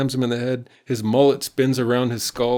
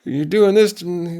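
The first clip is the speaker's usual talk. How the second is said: high, loud whining boy impression; hammed-up kid complaining about a bad day; upset kid; 9 semitones higher, 5 dB louder than usual. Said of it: "Terry did not like that".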